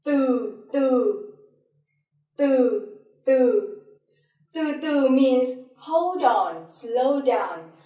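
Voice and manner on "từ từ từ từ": "từ" drawn out, sinking in pitch; low falling tone. Shown as a demonstration. Teacher giving an example word in the low falling tone. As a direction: let each "từ" slide downward. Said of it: "I will give you other example".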